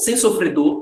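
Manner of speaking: ordinary talk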